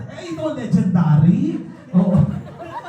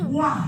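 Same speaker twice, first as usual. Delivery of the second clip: mock shout; 3 semitones higher, 4 dB quieter than usual. Shown as a demonstration.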